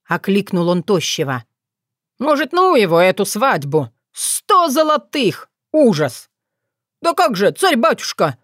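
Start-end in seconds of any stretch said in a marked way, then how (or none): 2.2-6.3 aghast lament. Acted. Tsar balks at the cost. 7.0-8.4 eager pleading. Acted. Thin advisor urges eagerly.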